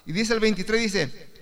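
ordinary delivery

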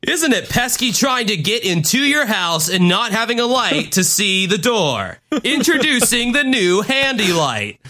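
late-night TV ad pitch; hammed-up infomercial host. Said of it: "spokesperson for late night infomercial".

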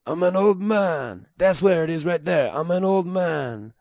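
slow, lightly Jamaican; Jamaican old man. Shown as a demonstration.

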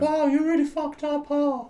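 very high, chiding ghost wail; spooky falsetto reproach. Pretend. Eighties ghost scolding the living, high ghostly voice. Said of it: "Oh, I'm being the ghost".

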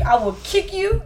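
put-on Liberian parent threat, West African accent; a West African parent's warning. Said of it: "That's what they Liberians say".

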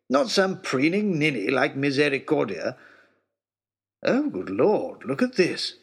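a lightly voiced peevish aristocrat; grudging, put-upon lordship; a hint of a testy baronet father; grumbling old lord. Lord Daunt scolds Hope kindly.

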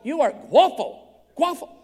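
high, loud imitation of an admirer; hammed-up gushing compliment; mock admiring exclamation. Mimics foreign word for handsome.

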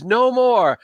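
high desperate cry; a broken man yelling at his tormentor; screaming NPC. Acted. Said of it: "he's screaming".

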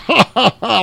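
high-pitched jeering ha-ha; mocking laugh. Paul laughs behind David at the punked guy, mocking. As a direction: laugh at him as if imitating a heckler.

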